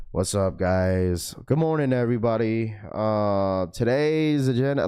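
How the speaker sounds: slow, low, flat morning greeting; low-energy bored greeting. Retold or imitated. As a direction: drag it out like you're half asleep. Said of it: "no one wants to hear that".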